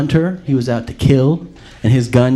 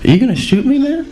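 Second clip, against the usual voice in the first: raised, challenging question; affronted deer; 12 semitones higher, 4 dB louder, faster than usual. Retold or imitated. Gangster deer confronting a hunter, indignant. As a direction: call the hunter out, higher and louder.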